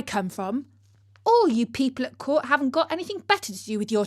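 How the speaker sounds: cheeky, fast cockney-ish retort; feisty beggar girl. Acted. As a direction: scoff at court life, rattling it off. Beggar girl refuses to dance.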